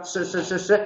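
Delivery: "se" with tongue tip at the alveolar ridge; whistling S. Shown as a demonstration. Teacher demonstrating tongue position for S, whistling "se". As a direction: repeat "se" with a whistling apical S. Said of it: "y silba".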